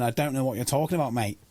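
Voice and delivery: mock Aussie coach's denial; put-on Australian accent.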